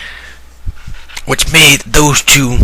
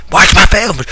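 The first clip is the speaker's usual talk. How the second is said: shouted order; 8 semitones higher than usual. Acted. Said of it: "he's all like".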